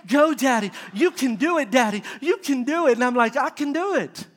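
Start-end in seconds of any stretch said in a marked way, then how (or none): 0.0-2.9 lightly voiced cheering daughter; little girl cheering. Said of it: "my little girl's like". 3.3-4.3 high, building battle cry; rally yourself loudly, drawing out the last words; mock heroic shout. Acts himself rallying to open jar.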